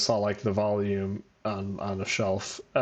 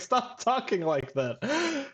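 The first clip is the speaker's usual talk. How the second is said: scolding mom; 12 semitones higher, slower than usual. Retold or imitated. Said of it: "even the mom is like".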